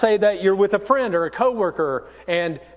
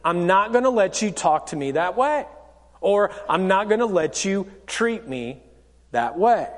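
calm and measured, slightly lower; calm boundary-setting; 3 semitones lower than usual. Acted. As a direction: state it calmly, without raising your tone. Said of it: "You just kinda calmly say to them".

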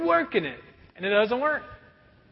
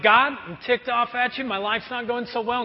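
mild mock complaint; 3 semitones higher than usual. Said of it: "who's like".

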